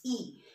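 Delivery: "E" said softly as a pure "ee"; Spanish I sound. Shown as a demonstration. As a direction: say "E" as a soft, clean "ee". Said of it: "This is the E sound".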